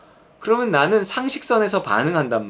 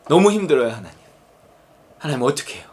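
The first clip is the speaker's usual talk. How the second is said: weary pleading prayer; 3 semitones lower, faster than usual. Acted. Voices a struggling believer's prayer.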